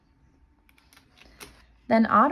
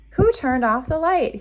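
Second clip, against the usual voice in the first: a touch of cross complaint, a little louder; mildly cross; 6 semitones higher, 4 dB louder than usual. A narrator's reading. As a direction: grumble at being left in the dark. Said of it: "he said crossly".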